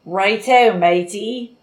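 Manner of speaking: playful stab at Australian; mock Australian slang delivery; Australian accent. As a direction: attempt a jaunty Australian accent. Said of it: "Say one other Australian thing".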